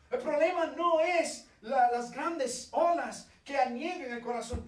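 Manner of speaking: fervent sermon peak; preaching at full force. Real, not acted. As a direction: drive the point home to the congregation. Preaching climax.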